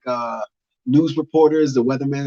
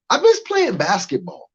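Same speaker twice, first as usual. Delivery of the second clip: much higher, whining; whiny high lament; 11 semitones higher than usual. Acted. Comic missing basketball, high whiny lament. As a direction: wail it like a kid missing recess.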